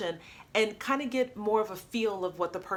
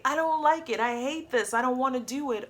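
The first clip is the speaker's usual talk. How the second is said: put-on childish outburst; 5 semitones higher, 3 dB louder than usual. Child voicing forbidden complaints.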